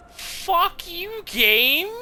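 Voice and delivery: high, loud furious curse; angry shout. Real, not acted. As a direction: hurl it at the game. Player cursing the game.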